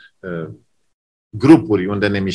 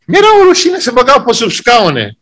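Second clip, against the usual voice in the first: embarrassed; 11 semitones higher, 5 dB louder than usual. Retold or imitated. Preacher recalls embarrassment at church.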